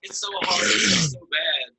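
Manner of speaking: mock whining, drawn-out high wail; hammed-up moan of self-pity, pitched high; whiny complaining. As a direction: wallow in it, high and slow. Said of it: "like, complaining would be like".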